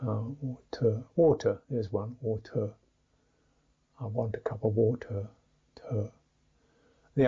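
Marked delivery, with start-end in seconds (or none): 0.1-2.7 "water" with a breathy, aspirated t. Shown as a demonstration. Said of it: "pronounces T as aspirated T". 4.0-5.3 "water" with a lightly aspirated t. Shown as a demonstration. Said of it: "pronounces T as aspirated T".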